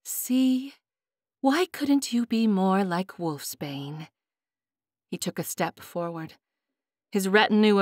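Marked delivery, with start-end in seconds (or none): 0.1-4.1 mocking king. High King mocks the prisoner.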